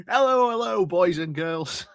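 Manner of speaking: put-on high sing-song hello to the kids; hammed-up pantomime welcome to the audience; panto host greeting. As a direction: greet the crowd like a pantomime dame. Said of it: "really is pantomime atmosphere".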